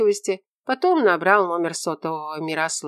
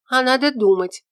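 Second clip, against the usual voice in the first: put-on higher, louder girl's retort; snippy young woman; 8 semitones higher, 6 dB louder than usual. A narrator's reading. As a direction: snap back, pitched up. Ella retorts.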